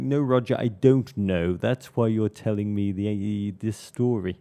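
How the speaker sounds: slow, measured fatherly correction; lightly voiced stern father; imitated proper father. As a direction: correct him slowly, like a pedantic dad. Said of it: "He'd be like".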